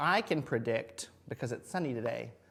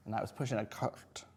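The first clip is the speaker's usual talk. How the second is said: whispering; 3 semitones lower, 6 dB quieter than usual. Real, not acted. Drawing, narrating quietly.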